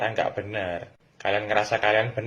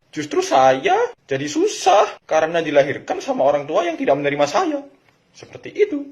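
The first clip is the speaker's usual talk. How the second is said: put-on defiant child; 6 semitones higher, 6 dB louder than usual. Defiant child retort, raised.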